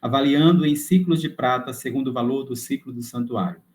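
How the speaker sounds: measured, formal reading aloud; read-aloud lesson voice; scripture reading. Acted. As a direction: read the passage out clearly and solemnly. Reads scripture text aloud.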